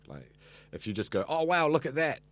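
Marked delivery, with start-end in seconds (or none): 1.3-2.2 higher-pitched, put-on wow reaction; mock amazement. Shown as a demonstration. Host reacting to something listeners can't see, mock amazed. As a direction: act out a host marvelling at a sight. Acts out a poor host's reaction.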